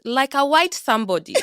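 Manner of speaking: retelling the niece's words with a laugh slipping in; quoting the child with a chuckle through it; niece's blunt verdict, laughing. Retold or imitated. Repeating her niece's remark to the host, half-laughing. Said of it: "And she goes".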